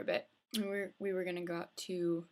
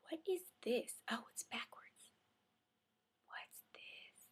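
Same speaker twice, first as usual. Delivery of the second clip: muttered aside; 4 semitones higher, 10 dB quieter, slower than usual. Real, not acted. Aside, reading label.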